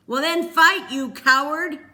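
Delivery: high, loud raging scream; mad scream. A narrator's reading. Peter screaming at Cole like a madman, raging. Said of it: "Peter screamed like a madman".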